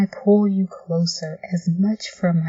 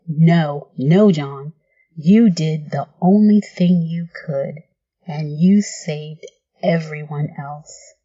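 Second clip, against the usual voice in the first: desperate reassurance; 2 semitones lower, 4 dB louder than usual. Acted. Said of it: "clinging desperately to you now".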